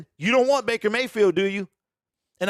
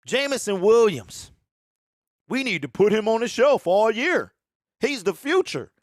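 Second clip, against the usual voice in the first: worried Lions fan; 3 semitones higher than usual. Retold or imitated. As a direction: play a nervous fan who wants to protect him. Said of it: "let me do my best impersonation of Detroit Lions fans".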